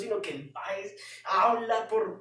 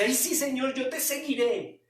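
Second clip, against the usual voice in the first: eager Peter; 6 semitones higher than usual. Retold or imitated. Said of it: "Pedro es ese discípulo que dice".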